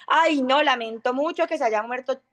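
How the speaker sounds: high, bright-pitched and offhand, too light for bad news; a careless chirpy condolence on a sad call. Shown as a demonstration. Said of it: "yo no le voy a decir".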